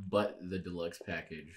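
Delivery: whispering. Real, not acted. Joking aside about deluxe package.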